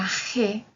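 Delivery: "G" said as gi, like English jee; Italian letter name. Shown as a demonstration. Teacher showing the Italian G, clear letter-name demo. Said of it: "en italiano se pronuncia".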